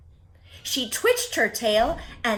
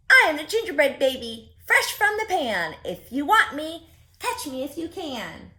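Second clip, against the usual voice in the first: put-on cheeky gingerbread baby; 6 semitones higher, 4 dB louder than usual.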